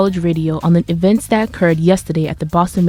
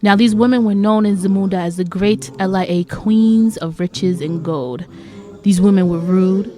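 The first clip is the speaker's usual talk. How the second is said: fairy-tale storytelling. Acted. Storyteller introducing rude women of Zamunda, fairy-tale storytelling. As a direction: narrate it like a tale, stretching key words.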